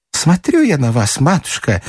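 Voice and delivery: slightly high chattering servant; трещит Марфа. Acted. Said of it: "трещала Марфа". (лёгкая бабья трескотня)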